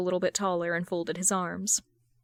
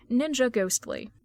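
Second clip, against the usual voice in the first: ordinary delivery, nothing marked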